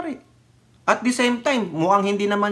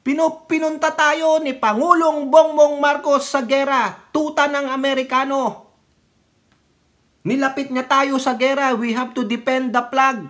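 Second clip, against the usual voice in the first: higher, louder mock accusation; mocking critics; 6 semitones higher, 4 dB louder than usual. Vlogger parroting critics' accusations, raised mock rant. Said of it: "alam nyo na naman sasabihin nila".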